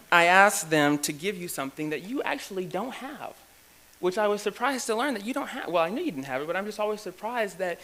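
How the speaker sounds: giggling through a teasing joke; teasing a fellow president, laughing as he talks. Real, not acted. Teasing his friend about the gavel, laughing through the words.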